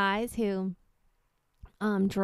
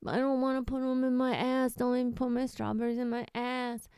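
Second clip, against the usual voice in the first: mild, higher pleading whine; lightly acted tearful begging; mock crying; 3 semitones higher than usual. Guy begs the farmer for mercy, mock crying. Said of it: "So he's crying".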